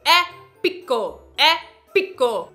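slow, loud, drawn-out "Épico" with a falling end; dramatic épico. Shown as a demonstration. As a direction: boom out "Épico" slowly like a movie trailer. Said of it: "fale as palavras com entonação".

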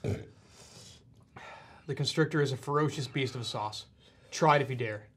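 slow, ominous announcer; dramatic label read. Acted. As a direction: read it like a trailer.

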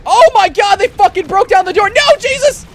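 very high, loud panicked shouting; terrified yell. Real, not acted. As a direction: yell in terror as they burst in. Sharks break the door.

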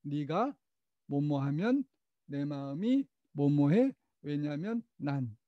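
slow recital. Shown as a demonstration. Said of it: "세 마디로 시작".

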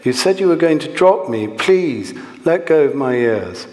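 desperate pleading. A narrator's reading. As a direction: plead as the boy to be let go. Boy pleading to be released.

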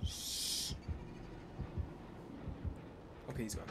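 hushed whisper. Real, not acted. Hiding, hushing.

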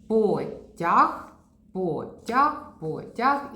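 Потяг repeated three times, each rising; repeated word drill. Shown as a demonstration. Therapist drilling the word again and again, rising each time. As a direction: chant Потяг over and over. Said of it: "І що в нас вийшло?".

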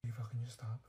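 soft hissed plea; urgent whisper. Acted. Girl hushing her friend under a stranger's stare, whispering. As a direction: whisper so the girl behind can't hear.

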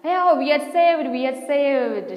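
high, loud cry of relief; shouted. A narrator's reading. Mouse cheering the plan, relieved shout. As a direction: cheer it out, easing off on the repeat. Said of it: "shouted another".

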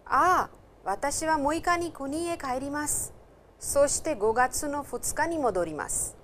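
two voices on a radio drill, loud and clear; recorded dialogue. Acted. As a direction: play the textbook dialogue like a recording.

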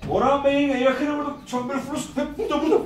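high, loud call across a waiting room. Retold or imitated. Security guard calling for a patient's relative, calling out. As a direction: imitate a guard hollering for someone.

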